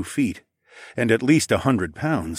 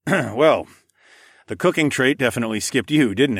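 teasing; 4 semitones higher, 4 dB louder than usual. Acted. Teasing joke about awful stew.

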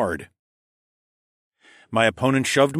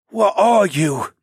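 breathed in fear; 9 semitones higher, 6 dB louder, slower than usual. A narrator's reading. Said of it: "he breathed".

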